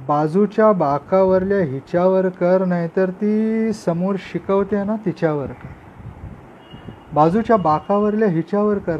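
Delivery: emphatic Marathi poem recitation with pauses; poetry recitation. Acted. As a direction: recite the poem out to a live audience. (जोश से कविता पाठ)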